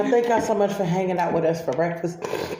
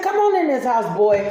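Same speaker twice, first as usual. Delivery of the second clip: calling him inside; 3 semitones higher than usual. Retold or imitated. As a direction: yell for the boy to come in. Mother calling her son inside.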